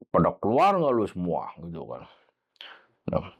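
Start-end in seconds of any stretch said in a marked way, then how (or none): 0.1-1.5 lightly voiced deep spirit; a hint of a big, low spirit voice; possessed bass voice. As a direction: imitate a possessed kid's bassy voice. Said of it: "suaranya gede, ngebas".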